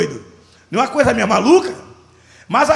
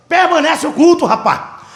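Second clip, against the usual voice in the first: laughing; 6 semitones higher, 5 dB louder than usual. Real, not acted. Laughs while retelling his reply.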